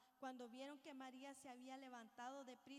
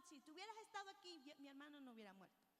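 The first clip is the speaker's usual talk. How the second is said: demanding, reproachful; much faster than usual. Retold or imitated. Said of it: "no como demandándole, ni como regañándole".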